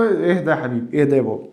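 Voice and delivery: soft, calming reassurance; teacher soothing a panicking student, soft and gentle. Acted. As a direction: soothe the nervous pupil gently. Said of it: "teacher calming the student".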